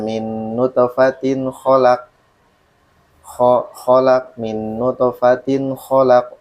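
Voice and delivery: slow level recitation, KHOLAK with one short, undoubled KH; KH semplice. Shown as a demonstration. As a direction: recite slowly, keep the KH in KHOLAK single and light. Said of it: "khonya cuma satu harokat".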